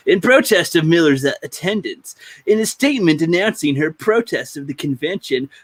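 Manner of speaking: mild put-on announcer read. Podcast host reading the statement, light announcer voice. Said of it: "Let's do the announcer voice".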